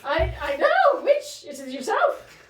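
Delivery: put-on high, loud Gaelic-accented proclamation. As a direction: declare it in a hammy Gaelic accent. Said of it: "Very Gaelic".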